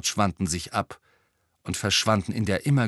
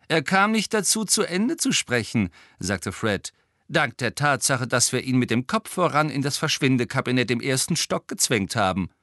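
higher-pitched, brisk twin voice; lively higher voice for the twin; lightly voiced cheeky twin; 4 semitones higher, 3 dB louder than usual. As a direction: play one of the troublemaking twins, pitched up.

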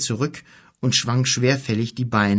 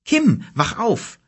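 much higher, slow, louder wake-up call; 10 semitones higher, 4 dB louder, slower than usual. A narrator's reading. Mother waking her sleeping son, calling out.

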